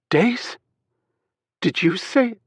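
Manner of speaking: high, sharp disbelief; can't believe what she heard; shocked outrage. A narrator's reading.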